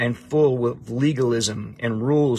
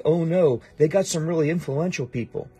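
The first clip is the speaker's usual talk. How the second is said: mock worry; 4 semitones higher than usual. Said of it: "Or God's like".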